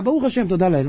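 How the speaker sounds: mock sleepy reply; lightly voiced half-asleep thanks; drowsy. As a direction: imitate a man answering before dozing off. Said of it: "ממשיך לישון".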